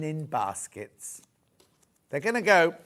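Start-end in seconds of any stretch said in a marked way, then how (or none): 2.1-2.7 a hiccup breaks the phrase. Real, not acted. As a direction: cut off by a hiccup. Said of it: "I've got hiccups".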